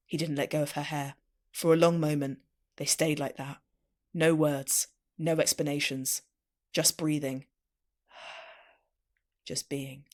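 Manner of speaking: measured, low-key romance reading; romance story narration. A narrator's reading. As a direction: read it like a tender audiobook, phrase by phrase. Reads romance fiction aloud.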